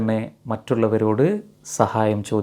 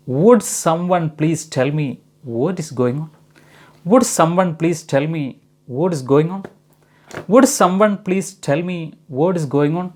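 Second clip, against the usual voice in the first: slow polite question; 3 semitones higher, much slower than usual. Shown as a demonstration. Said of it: "എന്താണ് സംഭവിക്കുന്നതെന്ന് ആരെങ്കിലും ഒന്ന് പറയാമോ?".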